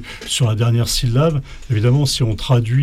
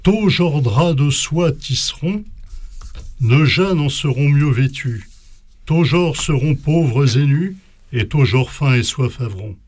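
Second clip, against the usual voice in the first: poem reading. Acted. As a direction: read the medieval lines with care, slightly raised. Reads Old French poem aloud.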